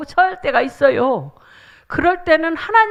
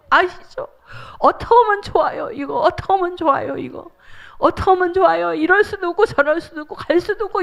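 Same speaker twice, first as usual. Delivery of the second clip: higher, urgent begging, speeding up in places; pleading prayer; 4 semitones higher than usual. Shown as a demonstration. Preacher acts out clinging to God in prayer. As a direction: plead desperately for an answer. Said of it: "울면서 하나님 앞에".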